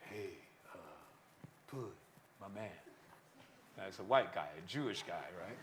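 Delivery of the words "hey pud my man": deliberate, slow beatnik drawl, hushed near whisper. Imitating their dad's greeting after school, in a slow, deliberate beatnik tone. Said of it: "Beatniks would speak in this very sort of slow, deliberate tone".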